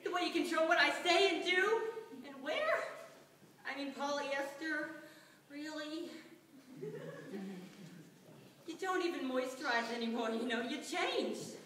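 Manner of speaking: angry rant, peaking loud on the insults; retold lash-out. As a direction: lay into him, building to a loud blast. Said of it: "I lashed out and I was like".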